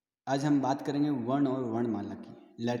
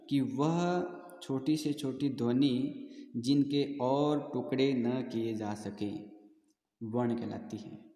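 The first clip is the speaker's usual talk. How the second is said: slow, deliberate dictation pace; dictating definition; slower than usual. Shown as a demonstration. Teacher dictating the definition of a letter, slowly. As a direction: spell the definition out so it can be copied. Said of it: "definition read for students".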